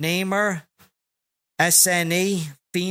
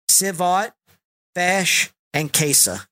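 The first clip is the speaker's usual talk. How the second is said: out of breath; slower than usual. Real, not acted. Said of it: "Now I'm out of breath".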